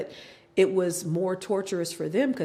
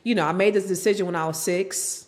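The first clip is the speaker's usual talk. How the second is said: louder laughing declaration; laughing rant; 6 dB louder than usual. Real, not acted. Wife laughing about staying married until she dies. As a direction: laugh while vowing to tough it out.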